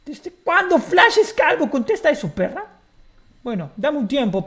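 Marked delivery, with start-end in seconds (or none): 0.0-2.7 sneering taunt. Acted. Repeats mocking question, louder.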